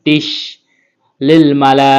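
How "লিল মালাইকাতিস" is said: মালাইকাতিস ending in a sharp whistling স; hissing siin. Shown as a demonstration. Teacher showing the whistling siin letter to learners. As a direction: lean on the final স, tongue tip on the upper teeth. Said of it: "সফির অক্ষর শেষ দিয়ে পড়তে হয়".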